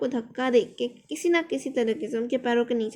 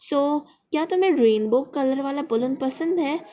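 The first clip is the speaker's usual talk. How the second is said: a hopeful, slightly louder question; hopefully; 2 semitones higher, 4 dB louder than usual. Retold or imitated. Man offering the lost child a rainbow balloon, hopeful. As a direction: ask it hoping he'll say yes. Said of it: "बहुत ही उम्मीद से पूछा".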